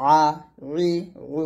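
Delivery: আ squeezed from the middle of the throat; pressed ayn. Shown as a demonstration. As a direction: press each vowel, আ to উ, from mid-throat. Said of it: "মাঝখান থেকে চাপ দিয়ে বলতে হবে". (গলার মাঝখান থেকে চাপ দিয়ে আ)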